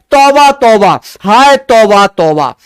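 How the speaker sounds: loud, hammed-up wail of tauba tauba; mock wailing lament. A teacher acts a tourist wailing at the heat, loud mock lament.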